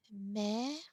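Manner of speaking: mère with an open "è"; mère, vowel like "bed", mouth open; accent grave. Shown as a demonstration. French teacher contrasting grave with aigu, mère with open è. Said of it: "accent grave".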